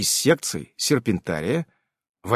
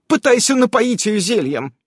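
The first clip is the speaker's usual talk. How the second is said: giving orders; 8 semitones higher than usual. A narrator's reading. Irene gives Marta another order, urgent and commanding. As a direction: order her to move, urgently. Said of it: "отдала ещё одно распоряжение Ирен".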